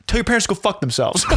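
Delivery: Gary Vee. Retold or imitated. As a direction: imitate a brash advice guru, amused. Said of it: "And he's like".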